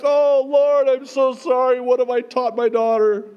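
high, loud mock-horrified cry; dismayed exclamation. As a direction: cry out in comic dismay to the Lord. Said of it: "I'm like".

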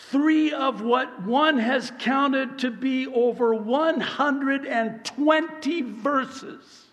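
rising pulpit preaching, pitch climbing high; fiery sermon delivery. Acted. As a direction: preach it with mounting force.

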